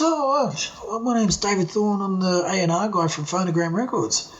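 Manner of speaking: lightly imitated English record man; Pommy accent. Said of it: "it's a Pommy accent".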